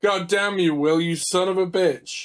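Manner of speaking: loud fake fury at a friend; mock outrage. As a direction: bellow it in mock anger.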